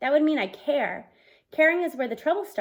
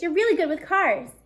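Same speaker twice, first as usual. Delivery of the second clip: raving; 4 semitones higher than usual. Acted. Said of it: "Parker raves".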